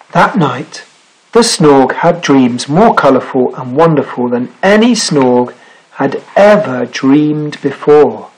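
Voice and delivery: slow, measured read-aloud with stretched key words; story narration. Acted. Reads picture book aloud.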